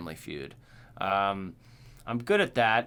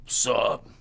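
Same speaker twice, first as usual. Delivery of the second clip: stern greeting; 4 dB louder than usual. Retold or imitated. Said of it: "Just very stern all the time".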